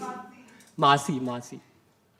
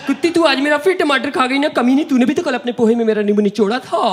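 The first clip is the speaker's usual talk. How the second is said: mock roommate bickering; 4 semitones higher than usual.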